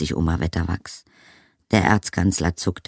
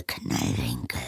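softer, almost under her breath; quieter still; 5 semitones lower, 5 dB quieter than usual. Acted. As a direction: let the name fade away. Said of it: "sagte sie leise". (noch leiser, fast verhallend)

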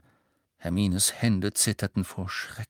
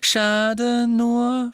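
high, loud, pointed; raised voice; 14 semitones higher, 8 dB louder than usual. A narrator's reading. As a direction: raise your voice sharply. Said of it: "fuhr sie mit erhobener Stimme fort".

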